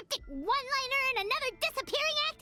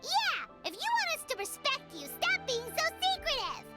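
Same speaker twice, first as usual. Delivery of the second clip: higher-pitched scolding; indignant demand; 4 semitones higher than usual. Acted. Listener demanding respect be earned by openness, indignant. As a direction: tell them off, exasperated. Demands the storyteller stop hiding things.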